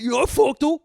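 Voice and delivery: put-on high, loud goofy kid voice; high kid boast voice. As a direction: play the proud weird kid. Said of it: "Brad just fucking".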